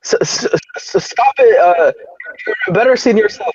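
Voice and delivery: prim GSP impression. Imitating GSP's weak trash talk.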